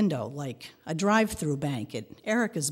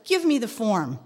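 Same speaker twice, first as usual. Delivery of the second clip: eager clerk; 5 semitones higher, 5 dB louder than usual. Retold or imitated. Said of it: "the guy says".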